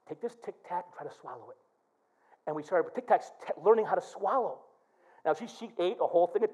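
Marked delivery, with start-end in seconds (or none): 0.1-1.6 put-on low, soft and fast, to a little girl; soft quick coaxing. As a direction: gently hurry her to swallow it. Father coaxing young daughter.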